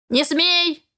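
hissing raven. Acted. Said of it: "зашипел ворон".

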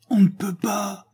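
appel épuisé, beaucoup plus haut; cri épuisé au loin. A narrator's reading. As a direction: crier de loin, à bout de forces. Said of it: "cria de loin une voix épuisée". (un pompier épuisé crie de loin)

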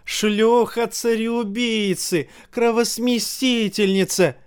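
high, slow, drawn-out shriek; screaming. A narrator's reading. Crazed mother shrieks insults at the queen, high and slow. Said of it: "и она завопила".

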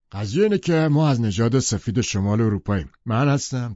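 loud, self-important pronouncement; Tom, emphatic. A narrator's reading. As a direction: declare it like a lecture. Tom explaining race theory.

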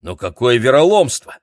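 громкий возмущённый возглас; возмутись громко; возмущение. Acted. Дэмин возмущён изменой. (громко и возмущённо)

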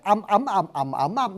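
"âm, ấm, ầm" chanted through the tones; tone drill. Shown as a demonstration. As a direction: recite "âm" with each tone in turn. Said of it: "Bên sinh âm nó có đủ sáu dấu".

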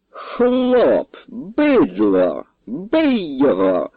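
high-pitched shouted orders, slow on the end; priest shouting. A narrator's reading. Priest shouting at the nobles to beat the priest, high yell. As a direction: yell them on to beat him. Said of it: "кричав ксьонз".

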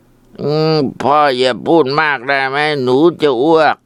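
put-on drunk. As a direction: slur it like a drunk teen about to throw up. Drunk son about to vomit.

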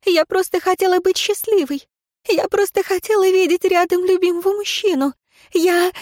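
pleading with a breaking heart; desperate woman. Acted. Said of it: "едва слышное".

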